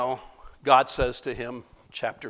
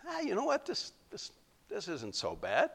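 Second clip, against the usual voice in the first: hushed, partly breathy; soft contented sigh; 6 semitones higher, 9 dB quieter than usual. Acted. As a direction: sigh in comfort. Jonah relaxing under the plant.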